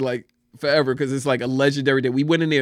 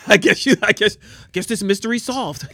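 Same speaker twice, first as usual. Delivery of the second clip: higher voice breaking into laughs; laughing; 6 semitones higher than usual. Real, not acted. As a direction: crack up while joking along. Laughing as he mocks the manager.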